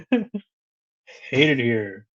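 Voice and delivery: drawn-out mock misery; slow, hammed-up glum grumble; bummed out. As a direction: imitate someone fed up, very slowly. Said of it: "bummed out".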